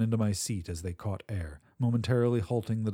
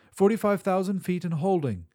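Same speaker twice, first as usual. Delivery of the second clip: shout; 10 semitones higher, 5 dB louder than usual. A narrator's reading. Pilot shouting the altitude to the captain, loud shout. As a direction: call the altitude out loud and high. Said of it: "I shouted".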